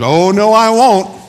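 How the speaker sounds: loud, high, drawn-out protest; hammed-up refusal, stretched out slowly; defiant denial. Peter contradicting Jesus.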